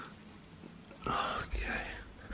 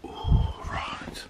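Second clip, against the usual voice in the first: whispering; 6 dB quieter than usual. Real, not acted. Sneaking through someone's room.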